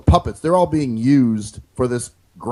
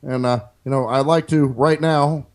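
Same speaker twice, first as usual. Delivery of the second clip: measured pauses, lightly voiced president; Obama impression; 3 semitones lower than usual. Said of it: "he talks more like this".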